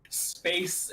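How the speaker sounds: mock Russian accent, held-back laugh; ridiculous Russian accent. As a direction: imitate a hammed-up Russian accent. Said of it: "in the most ridiculous Russian accent ever".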